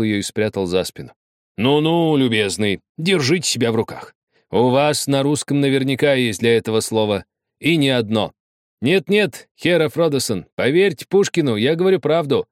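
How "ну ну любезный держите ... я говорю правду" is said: high, pleading and anguished; suffering voice. Acted. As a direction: beg him, close to despair. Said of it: "Страдание в его голосе было настолько явным". (страдальческий голос)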